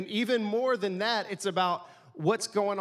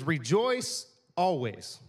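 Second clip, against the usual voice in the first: Rejoice always slowly and weightily; slow scripture reading; much slower than usual. Real, not acted. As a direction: read the verse with weight and calm. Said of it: "It says".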